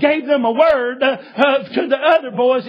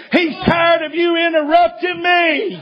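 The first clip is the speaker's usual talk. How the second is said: laughing; 6 semitones higher than usual. Retold or imitated. Preacher laughing retelling threat.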